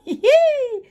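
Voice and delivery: sudden shrill burst of laughter; real amused squeal; high squealing laugh. Real, not acted.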